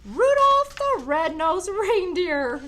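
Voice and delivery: slow, loud, grand proclamation; proud announcement. Acted. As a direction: announce his name with pride. Santa hails Rudolph.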